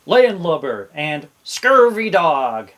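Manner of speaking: slow growled pirate insults; pirate talk. Shown as a demonstration. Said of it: "say real pirate stuff like".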